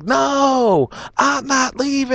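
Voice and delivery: put-on high, whiny drunk refusal; petulant refusal. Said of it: "the guy's like".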